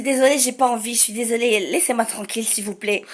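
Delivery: polite, unaggressive refusal, softening at the end; non-aggressive plea. Retold or imitated. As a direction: plead quietly to be left alone. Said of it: "surtout pas que je sois agressive".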